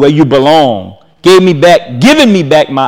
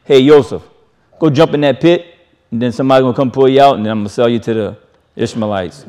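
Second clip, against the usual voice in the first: mock instruction; 4 semitones lower, 4 dB quieter, faster than usual. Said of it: "It wasn't Yehovah saying".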